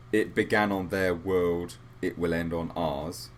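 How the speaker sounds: slow, dramatic trailer read; horror trailer voice. Retold or imitated. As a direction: intone it like a movie trailer. Reading movie tagline dramatically.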